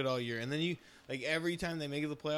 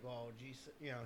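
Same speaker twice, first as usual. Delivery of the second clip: mock Texas drawl. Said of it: "It's George W".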